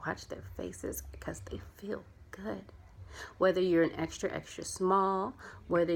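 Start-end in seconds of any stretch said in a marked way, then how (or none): 0.1-2.6 hushed tender. Real, not acted. Tender picture of happy customers.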